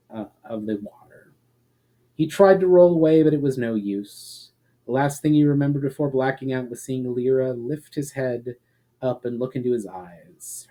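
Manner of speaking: steady storyteller's reading voice; dramatic story reading. A narrator's reading. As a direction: read the chapter like a fireside tale. Reads fantasy chapter aloud.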